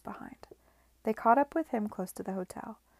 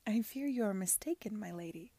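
mortified. Acted.

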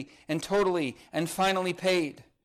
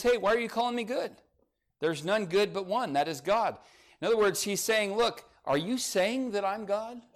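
pointed challenge; 5 semitones higher than usual. Retold or imitated. Voices Jesus challenging the young man.

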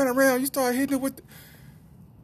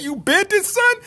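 amused disbelief; 6 dB louder, slower than usual. Retold or imitated. Dad laughing at bent clarinet.

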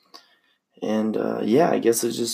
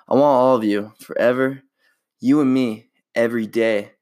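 lightly voiced movie heartthrob, earnest; Ryan Gosling impression; faster than usual. Friends said he sounds like Ryan Gosling, so he reads romantic lines as him. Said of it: "I'm gonna read some quotes by him".

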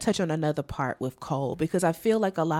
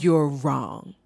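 emotional; 6 semitones lower than usual. Real, not acted. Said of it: "Why am I getting emotional?".

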